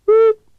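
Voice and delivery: high, loud whoop; a sudden high, loud cheer; whooping start cry. Acted. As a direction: let out a wild whoop as they're off. Start of the race, wild cry.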